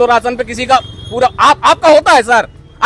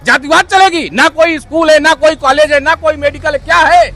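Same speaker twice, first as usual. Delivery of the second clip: worked-up, higher-pitched tirade; real anger; 3 semitones higher than usual. Real, not acted. Citizen listing missing schools and colleges to reporter, angry. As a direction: fire off grievances angrily, voice raised in pitch. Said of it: "तो काहे को इतना गुस्सा है".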